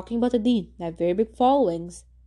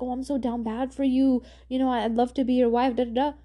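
mock lovesick commenter; 2 semitones higher than usual. Vlogger mocking a girl gushing in comments, lightly swooning mock voice. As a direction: tease her gushing comment with a mild put-on voice.

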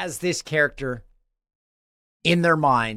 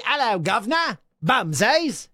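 a hammed-up, higher Irish accent; bad Irish accent; 8 semitones higher than usual. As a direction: greet the UK in a terrible mock Irish accent. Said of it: "please don't do your Irish accent again".

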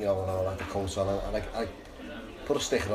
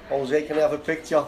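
put-on Salford accent, higher than usual; best Salford accent; 4 semitones higher, 4 dB louder than usual. Fan asking Jose for a picture, put-on Salford accent. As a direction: ask in a mock Salford accent, amused. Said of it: "in my best Salford accent".

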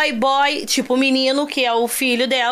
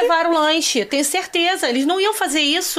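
high, hurried pleading, half laughing; retold desperation; 5 semitones higher, faster than usual. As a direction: insist desperately, lightly acted. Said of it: "E eu, desesperada, falei".

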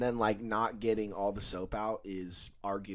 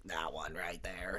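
mumbled whisper; 4 semitones lower, 11 dB quieter than usual. Retold or imitated. Store worker imitates mumbling customer, whispered. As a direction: mumble it, barely voiced and soft. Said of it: "I have no fucking clue what he says".

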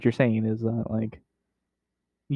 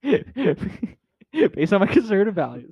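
drawn-out mock pundit; slowly hamming a pundit; 6 semitones higher, much slower than usual.

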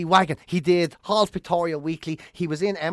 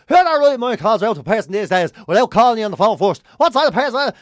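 cantankerous; 2 semitones higher, 5 dB louder than usual. Retold or imitated. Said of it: "started getting cantankerous".

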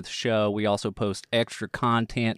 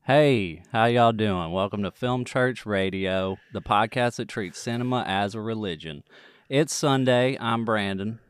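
put-on Texas accent. Podcast host opening the show in a put-on Texas accent. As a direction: lean gently into a Texas accent. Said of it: "am I gonna keep this accent going".

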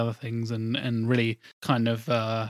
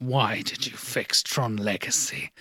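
a lightly put-on English accent, slow and disapproving; mock Stuart Main in an English accent; 3 semitones lower, slower than usual. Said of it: "he's suddenly got an English accent".

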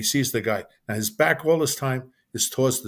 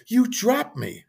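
much higher, imitated indignant protest; insistent accusation; 11 semitones higher, much slower than usual. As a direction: repeat it as a high-pitched accusation. Brother repeats the accusation, insisting.

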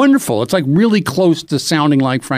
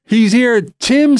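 grand announcer reveal; 6 semitones higher, slower than usual. Retold or imitated. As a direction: build the reveal like a showman. Announcer reveals guest with fanfare.

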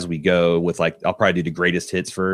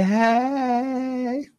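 high cheer. Pretend. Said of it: "All my furries in the house say".

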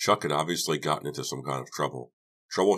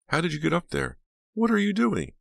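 very high-pitched, incredulous questions; astonished exclamation; 5 dB louder than usual. A narrator's reading. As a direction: squeal the questions in amazement. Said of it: "Dina exclaimed".

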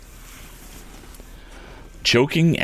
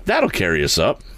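much higher, pressing voice; urgent; 12 semitones higher than usual. A narrator's reading. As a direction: push the plan urgently. Tom urging in danger.

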